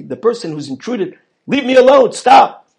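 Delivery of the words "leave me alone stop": mild mock yell. Father snaps at intruder.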